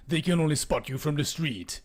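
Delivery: ordinary talk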